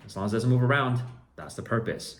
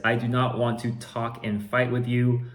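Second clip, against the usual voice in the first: higher, louder mock buyer voice; reading buyer's message; 3 semitones higher, 5 dB louder than usual. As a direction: act out the whiny buyer. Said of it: "Then he says".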